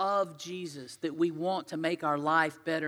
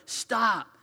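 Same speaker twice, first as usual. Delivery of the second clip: higher, louder sharp rebuke; scolding crowd; 3 semitones higher, 7 dB louder, slower than usual. Acted. Crowd hushing the blind beggar, loud scolding. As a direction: shut someone up impatiently, voice raised.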